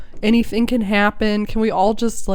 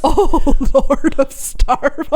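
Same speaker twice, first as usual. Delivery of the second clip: mock worship; 7 semitones higher, 4 dB louder, slower than usual.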